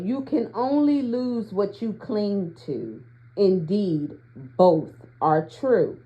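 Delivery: measured, deliberate card reading; read-aloud. Acted. Reader sharing an oracle card's guidance with listeners, measured read-aloud.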